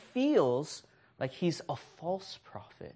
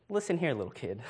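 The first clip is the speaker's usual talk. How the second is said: mock stern, laughing; faster than usual. Uncle mock-scolding the crying nephew, then laughing.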